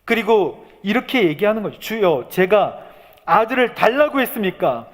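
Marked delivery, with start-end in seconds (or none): 1.8-4.9 high, pleading protest, acted out; impassioned, raised-pitch lament; reproachful complaint to God. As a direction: cry out the grievance to the Lord. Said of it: "이 원망도 하나님께 하시게".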